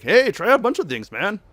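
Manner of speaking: high-pitched pep-talk quote; acted advice. Relaying the goal he gives us, high put-on voice. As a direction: pitch it up like a casual coach. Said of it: "He's like".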